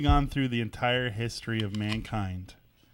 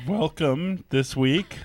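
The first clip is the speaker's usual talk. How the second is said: radio voice; 4 semitones higher, much slower than usual. Acted. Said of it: "do my radio voice".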